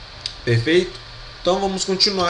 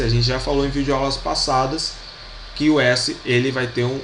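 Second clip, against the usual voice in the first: usual speaking voice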